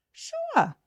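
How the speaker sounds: very high, airy mock-casual sure; fake casual sure. Hairdresser to client Emma on the phone, hiding her shock, high and breezy. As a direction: chirp it like nothing's wrong.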